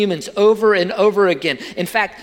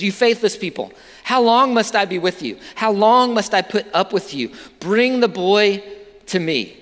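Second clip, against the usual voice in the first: frustrated. Acted. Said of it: "You can hear the frustration in Jesus' voice here".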